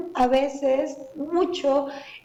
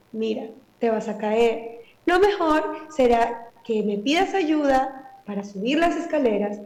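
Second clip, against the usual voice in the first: calm explaining. Shown as a demonstration. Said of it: "explicarle la razón".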